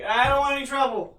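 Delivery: high, pleading frightened voice; scared. Acted. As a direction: beg off in a panic. NPC scrambling away.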